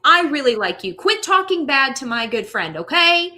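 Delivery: loud, high, emphatic pep talk; playful scolding. Real, not acted. Co-host defending a good friend from negative self-talk, playfully scolding.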